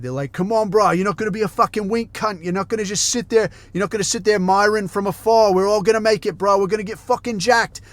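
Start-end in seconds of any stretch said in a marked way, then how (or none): 0.3-5.5 pumped Aussie bro pep talk, higher; mock Australian motivational rant; Australian gym bro impression. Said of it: "from one of this guy's little videos". 5.5-6.6 hyped Aussie bodybuilder, higher pitched; rally the lads like an Australian fitness influencer; quoting the meme in an Aussie bro voice; Australian gym bro impression. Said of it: "from one of this guy's little videos". 6.6-7.8 Australian gym bro impression. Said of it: "from one of this guy's little videos".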